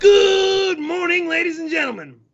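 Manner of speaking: big show host greeting; announcer voice. Acted. Show host opens the broadcast.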